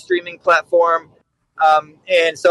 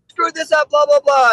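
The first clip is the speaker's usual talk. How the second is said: high mock rant from the boss; lightly voiced angry commander chewing them out; mock yelling commander; 9 semitones higher than usual. Battalion commander yelling at captains.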